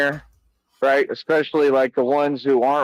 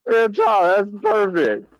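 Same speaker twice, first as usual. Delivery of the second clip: mock Frieza voice; 5 semitones higher than usual. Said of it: "gonna start talking like that to y'all".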